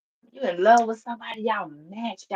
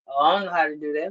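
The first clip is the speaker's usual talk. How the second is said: mocking whine; 4 semitones lower, faster than usual. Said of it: "This motherfucker said".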